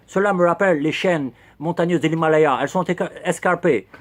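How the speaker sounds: put-on clumsy English accent on French words; mock English accent, lightly done; horrible English accent. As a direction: keep up the bad English-accented guide voice. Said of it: "Quel horrible accent anglais".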